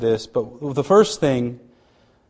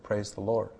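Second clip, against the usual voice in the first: a soft, faint mock whisper; retold whisper; 5 semitones lower, 11 dB quieter than usual. Husband retelling his wife's first whispered words, softly. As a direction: hush it like a barely awake patient. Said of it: "And she whispered".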